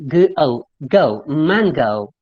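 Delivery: "go" slow, British vowel in "mango"; British English "mango"; British accent. Shown as a demonstration. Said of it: "if it is British accent".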